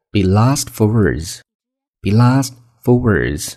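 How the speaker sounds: drawn-out, careful English phrase; slow model reading. Shown as a demonstration. Teacher introduces the second phrase to learners, slow and careful. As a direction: read it slowly for learners to copy.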